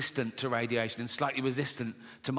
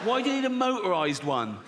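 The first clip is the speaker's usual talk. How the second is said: exasperated dad; 5 semitones higher than usual. Acted. Acts exasperated dad questioning Timmy.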